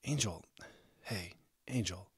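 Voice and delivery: tender, hushed reassurance; gentle. A narrator's reading. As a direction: coax someone upset by name. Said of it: "he said gently".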